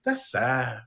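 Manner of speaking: lightly voiced Latina accent, falling away; Latina girl accent. Latina girl hearing at Target of a death, accented. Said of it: "there was this Latina girl".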